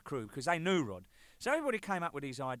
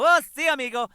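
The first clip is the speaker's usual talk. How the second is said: higher, louder hammed-up Spanish-accented installer; mock Spanish accent; 11 semitones higher, 14 dB louder than usual. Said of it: "the guy goes".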